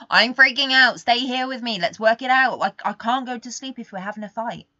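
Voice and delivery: loud, high, frantic plea not to be left; panicked pleading. Retold or imitated. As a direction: beg him to stay, freaking out. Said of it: "I'm like".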